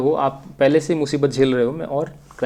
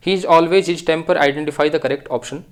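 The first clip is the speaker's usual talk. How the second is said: slow read-aloud; much slower than usual. Shown as a demonstration. Teacher reads the question aloud.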